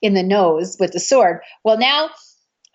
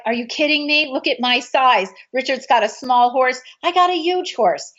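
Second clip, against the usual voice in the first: indignant disbelief; 4 semitones higher than usual. Retold or imitated. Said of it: "I'm like".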